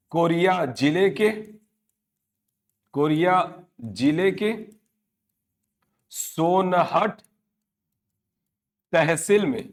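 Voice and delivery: very slow, word by word, with long pauses; slow dictation. Real, not acted. Teacher gives students the crossing point's district and tehsil, slow dictation. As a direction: spell out each place name at note-taking speed.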